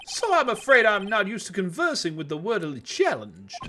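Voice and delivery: high, comical Texan tycoon; pompous rich Southern businessman; southern oil tycoon voice. Acted. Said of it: "southern U S, um, oil tycoon voice".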